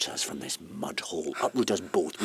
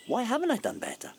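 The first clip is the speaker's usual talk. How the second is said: the question cried out much higher, stress on haven't; anguished cry; faster than usual. Acted. Man crying out to her about his wasted life. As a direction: let the same question burst out high in anguish. Outburst after fearing death.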